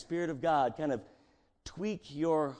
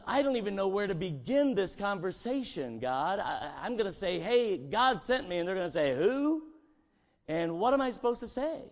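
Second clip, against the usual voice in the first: higher, fretful pleading; anxious Moses; 6 semitones higher than usual. Acted. Moses worrying to God, higher and fretful. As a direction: fret to God, lost for words.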